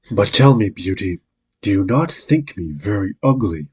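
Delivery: a hint of a humble beast, pleading; lightly voiced beast. The beast asking Beauty if he is ugly, a hint of beast voice.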